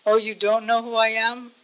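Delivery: very gentle. Retold or imitated. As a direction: voice a gentle, mild question. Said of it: "Radharani asked very gently".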